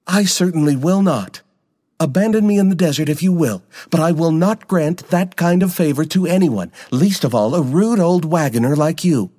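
high, indignant refusal; voice rising an octave. A narrator's reading. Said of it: "her voice rose a full octave".

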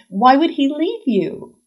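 high, slow, puzzled question; disbelieving friend. A narrator's reading. Friend responds to Nora's fear of being left, disbelieving.

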